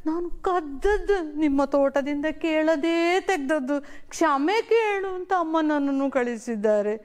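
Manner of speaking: put-on a child insisting he won't take what isn't his; earnest boy refusing. Ravi telling the landlord he wants no stolen fruit, earnest boy voice.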